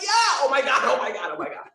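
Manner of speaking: giggling through the repeated oh my God; laughing oh my God. Retold or imitated. Retelling shared joy with the client, laughing. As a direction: let the laugh break into the words.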